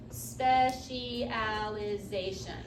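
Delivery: specialization drawn out slowly, each syllable clear; slow emphatic repeat. Shown as a demonstration. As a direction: spell out specialization slowly for the class.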